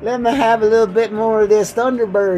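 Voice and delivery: put-on high, hollering country drunk act; drinking self. Acting himself drinking, hollering to his listeners, rowdy high voice. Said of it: "Especially when I get drinking, it's like".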